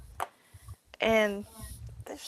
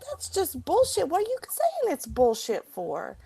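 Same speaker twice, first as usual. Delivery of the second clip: much higher and louder, scornful; angry throwback of his words; 9 semitones higher, 5 dB louder than usual. Retold or imitated. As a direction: fling his phrase back at him. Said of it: "I was like".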